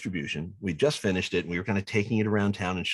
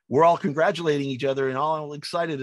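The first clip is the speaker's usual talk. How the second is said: normal talking voice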